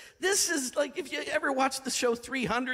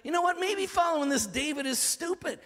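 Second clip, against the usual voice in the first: a hint of grumbling followers, higher and building; mild mock complaint rising to let's kill David; mutinous soldiers; 5 semitones higher than usual. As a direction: voice the angry men turning on David. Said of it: "these guys are like".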